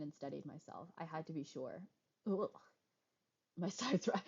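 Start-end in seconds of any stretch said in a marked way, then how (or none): 3.6-4.1 laughing. Real, not acted. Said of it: "I love how instead of making".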